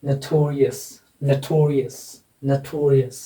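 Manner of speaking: "notorious" with stress on "to"; stress demonstration. Shown as a demonstration. Teacher drilling stress before the suffix, "notorious" stressed on "to". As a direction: lean on the second syllable of "notorious". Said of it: "ये वाला हो जाएगा syllable".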